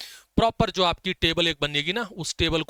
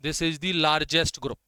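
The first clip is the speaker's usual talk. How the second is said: slow dictation; much slower than usual. Shown as a demonstration. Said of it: "dictating the key point".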